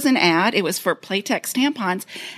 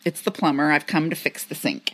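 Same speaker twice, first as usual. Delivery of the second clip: plumber voice; 7 semitones lower, 3 dB quieter than usual. Acted. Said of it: "Listen to this".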